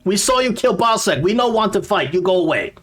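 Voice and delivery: high-pitched goblin protest; accusing goblin. Acted. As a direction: accuse in a high, agitated creature voice.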